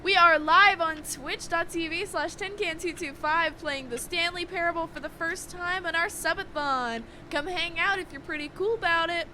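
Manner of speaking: hyped streamer announcement voice; YouTuber voice. Acted. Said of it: "I just put on my YouTuber voice for that".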